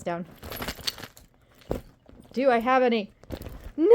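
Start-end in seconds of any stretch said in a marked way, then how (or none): 3.8-4.0 real laughing wail over no candy; laughing shout of dismay. Real, not acted. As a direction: cry out in comic despair, laughing. Finds no candy left.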